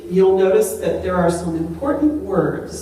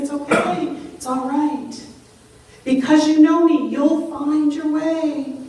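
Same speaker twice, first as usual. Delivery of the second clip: reassuring; 7 semitones higher than usual. Retold or imitated. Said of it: "He's saying".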